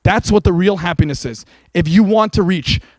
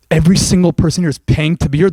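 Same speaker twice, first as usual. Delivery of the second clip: disbelieving repeat with a long rising end; can't believe what they just heard; incredulous question; 2 semitones lower than usual. Acted. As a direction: aliens stunned and asking back. Aliens repeat trainer's words in disbelief.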